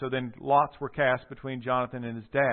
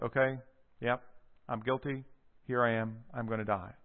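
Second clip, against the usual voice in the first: quiet, resigned, steady acceptance; soft courageous resolve; 3 semitones lower, 5 dB quieter than usual. Retold or imitated. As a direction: accept death calmly and bravely. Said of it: "in a way of courage".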